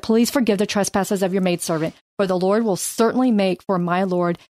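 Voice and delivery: measured, earnest Bible reading; scripture reading. Acted. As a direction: read Abigail's plea with care. Reads scripture aloud.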